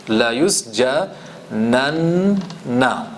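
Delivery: يُسْجَنَنَّ with the doubled noon held long and hit hard; stressed triple noon. Shown as a demonstration. Teacher to class, showing the emphatic noon in يُسْجَنَنَّ with a long held nn. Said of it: "there is a three noons there".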